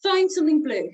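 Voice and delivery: called command. Shown as a demonstration. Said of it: "I might say".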